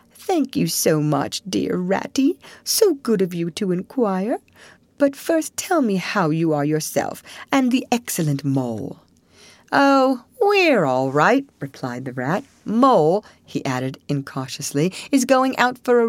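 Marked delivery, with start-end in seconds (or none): 0.1-9.0 feeble voice. Acted. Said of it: "a feeble voice replied". 9.7-11.5 bright, higher, louder rat voice; chirpy little rat; twitchy squeaking rat voice. Acted. 12.7-13.2 louder chirpy rat; lightly squeaky rat; twitchy squeaking rat voice. Acted. Rat speaks.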